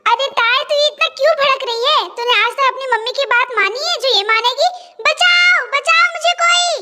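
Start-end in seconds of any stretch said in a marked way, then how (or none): 5.1-6.7 cry for help. Acted. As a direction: shout for help from the bushes. Unseen man cries for help. (मदद के लिए ऊँची आवाज़ में चिल्लाना)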